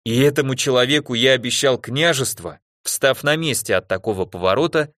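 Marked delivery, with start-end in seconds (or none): none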